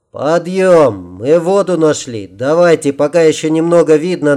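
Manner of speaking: rally an exhausted group to get to work; acted call to action with a touch of urgency; rousing call.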